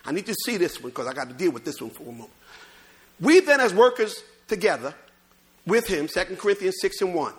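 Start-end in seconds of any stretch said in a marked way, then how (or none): 3.2-6.1 emphatic, measured scripture reading. Real, not acted. Preacher reads verse to congregation, emphatic scripture reading.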